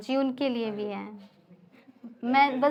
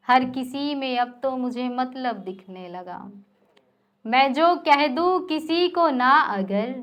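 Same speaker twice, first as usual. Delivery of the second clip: declaimed verse, each line repeated with more force; poem recitation. Acted. Poet reciting angry verse to a live audience, impassioned recitation. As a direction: recite the shayari, building on the repeat.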